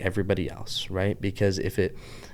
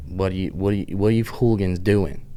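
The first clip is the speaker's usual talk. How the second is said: Pittsburgh accent. Shown as a demonstration. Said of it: "my downtown Pittsburgh accent".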